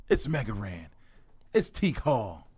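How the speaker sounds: whisper. Acted. Whispered self-intro after announcement.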